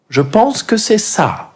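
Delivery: put-on very high, slow, thick English accent old lady.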